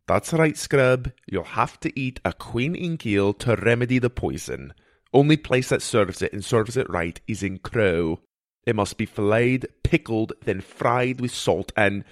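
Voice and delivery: lightly voiced mentor laying out a remedy; matter-of-fact healer character. Healer explains eel cure to boy, matter-of-fact.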